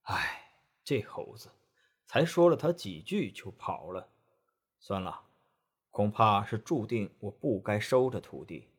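a touch of weary resignation; sighing. Acted. Tang Monk sighing to himself after Wukong leaves, soft and weary. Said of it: "叹了口气说".

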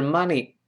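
"money" with an open "ah" vowel; wrong example with "mah" in "money". Shown as a demonstration. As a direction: mispronounce "money" as "mah-nee". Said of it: "不是money".

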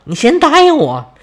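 1 whiny insisting. A narrator's reading. Thetis insists, whining.

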